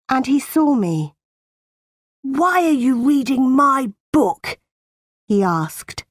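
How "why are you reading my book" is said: put-on higher-pitched bullying boy's challenge; cross demand. A narrator's reading. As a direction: demand an answer, a touch angry. Cousin John confronts Jane.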